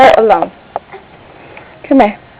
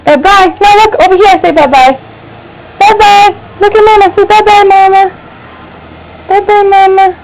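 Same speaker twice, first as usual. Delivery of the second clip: higher singsong bye-bye; 6 semitones higher than usual. Real, not acted. Mother prompting her baby to wave bye-bye, higher.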